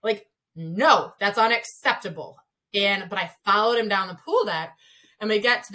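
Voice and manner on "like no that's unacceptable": loud, sharp telling-off; retold yell. Coach yelling at her swimmer over a thrown bottle, loud rebuke. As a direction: call him out across the pool deck. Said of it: "I yelled at him and I go".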